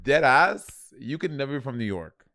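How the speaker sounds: lightly put-on New York accent; New York talk. Co-host teasing the other with mock New York talk. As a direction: lay on some New York slang and vowels. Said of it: "you do your New York talk".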